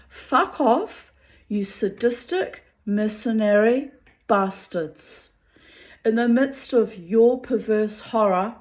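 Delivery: loud, furious telling-off; angry outburst. Retold or imitated. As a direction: spit it out in a rage. Furious written reply read aloud.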